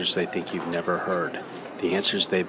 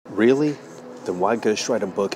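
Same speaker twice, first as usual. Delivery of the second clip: sceptical; 3 semitones higher than usual. Real, not acted. Sceptic answering believers' talk of mysterious ways, incredulous. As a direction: question it sharply with a raised pitch.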